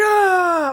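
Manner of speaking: high shrieking yelp, mock panic; imitating sister's shriek; startled scream. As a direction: shriek as if something hit your eye. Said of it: "she's like".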